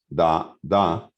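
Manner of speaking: DA, DA as two short, evenly weighted beats; two short syllables. Shown as a demonstration. Lecturer demonstrating the pyrrhic foot, two short even syllables on DA, DA. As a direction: say "da, da" with neither syllable drawn out. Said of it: "dos sílabas cortas".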